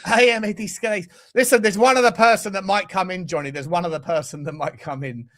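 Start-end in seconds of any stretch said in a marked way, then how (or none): 0.1-1.1 slow, loud mock-distraught manager; accented coach wailing in mock despair; Mikel Arteta crying impression. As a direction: drag out every word in hammed-up anguish, building louder. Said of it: "have you got Arteta crying?".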